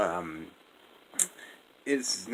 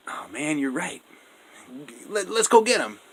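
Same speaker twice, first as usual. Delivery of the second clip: mock eager Pharaoh; 7 semitones higher, 5 dB louder than usual. Pharaoh changes his mind.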